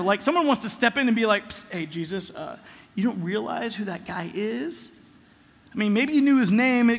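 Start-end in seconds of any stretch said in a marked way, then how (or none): 1.5-5.0 soft, hushed warning aside. Pretend. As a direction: pull him aside and say it under your breath. Pulling Jesus aside secretly.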